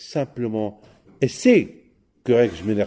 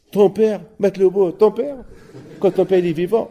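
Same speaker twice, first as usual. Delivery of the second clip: astonished; 7 semitones higher, 5 dB louder than usual. Acted. Son astonished, father still alive.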